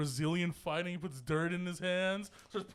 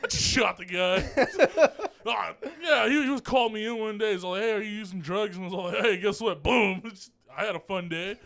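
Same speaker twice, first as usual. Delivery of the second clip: casual retold boast; 4 dB louder than usual. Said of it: "said it like a fun activity".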